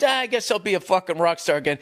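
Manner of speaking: quick, shrugging throwaway line; nonchalant. Retold or imitated. Imitating the bassist shrugging off his comeback, nonchalant. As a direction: toss it off like it's nothing.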